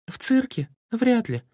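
high-pitched sceptical question and dismissal; doubtful. A narrator's reading. Girl questions gas sprayed at the circus, doubtful. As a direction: doubt it, voice lifted well up. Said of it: "усомнилась Алёнка".

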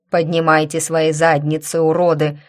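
громкий хриплый окрик надсмотрщика; рявкни на рабов; грубый окрик. Acted. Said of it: "хриплого голоса". (грубый окрик надсмотрщика)

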